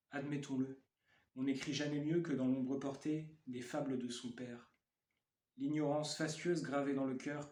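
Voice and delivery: measured poem recitation with pauses between phrases; poetry reading. Acted. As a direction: read it as verse, line by line. Reads own poem aloud.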